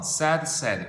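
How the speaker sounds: "said" with a short e, as SED; dropped i sound. Shown as a demonstration. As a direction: say "said" to rhyme with "bed", unlike "paid". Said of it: "사운드가 탈락돼서".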